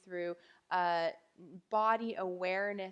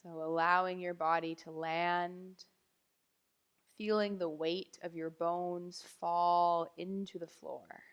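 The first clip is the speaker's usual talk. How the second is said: guided meditation; 2 semitones lower than usual. Real, not acted. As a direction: ease them down gently, leaving long silences. Begins lying-down body awareness meditation.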